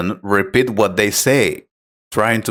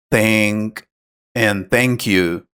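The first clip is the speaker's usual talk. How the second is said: slow, careful practice words; slow demo; 2 semitones lower, slower than usual. Shown as a demonstration. Teacher shows learners practice words like these, slowly.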